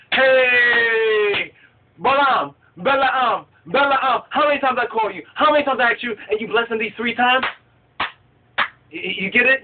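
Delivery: hammed-up movie-style telling-off; exasperated scolding. Balak scolds Balaam for blessing three times, exasperated.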